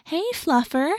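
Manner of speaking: high, coaxing pet voice; high talking-to-animals voice. A narrator's reading. Rachel greeting the cat, high talking-to-animals voice. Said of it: "in a high talking to animals voice".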